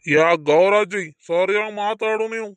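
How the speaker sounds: indignant protest. Acted. Accused man protests in quarrel.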